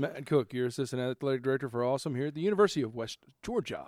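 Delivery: booming stadium announcer intro. Pretend. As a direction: announce your name like over the stadium speakers. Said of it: "You practicing that West Georgia P A voice".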